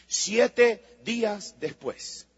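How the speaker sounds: drawn out "siete días después", each word weighted; "siete días después" said very slowly and gravely; slow emphasis. Shown as a demonstration. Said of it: "repeated slower".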